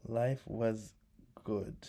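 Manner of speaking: a wistful whisper; whispered echo. Real, not acted. Whispering to herself about her childhood. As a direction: breathe the words out with no voice.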